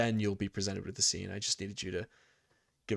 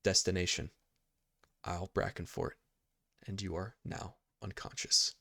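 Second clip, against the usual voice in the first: game master narration; 3 dB quieter than usual. A narrator's reading. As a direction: narrate the scene in short, paused phrases.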